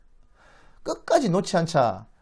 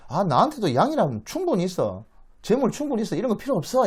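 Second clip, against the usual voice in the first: higher-pitched, brisk brotherly protest; acted refusal; 6 semitones higher than usual. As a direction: wave the gift away emphatically. Esau waves away the gift.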